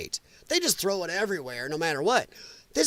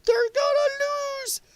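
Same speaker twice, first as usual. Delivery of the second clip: much higher, mocking gloating speech. Streamer mocking Democrat speeches, high smug voice. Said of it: "They're making speeches".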